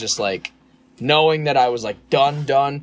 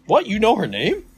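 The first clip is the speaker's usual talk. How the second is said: confused manager; 10 semitones higher than usual. Retold or imitated. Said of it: "He goes, he goes".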